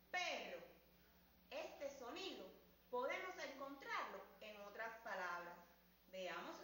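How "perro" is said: faster. Shown as a demonstration. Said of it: "Más rápido".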